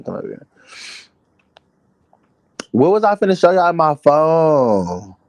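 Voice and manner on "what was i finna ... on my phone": loud, raised voice calling out; yelling across the room. Real, not acted. Asks chat, then repeats louder.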